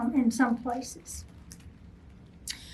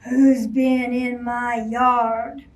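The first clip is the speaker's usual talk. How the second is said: slow, louder bellow; 4 dB louder, slower than usual. Acted. Furious Bear bellowing about his yard, slow bellow. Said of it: "and bellowed".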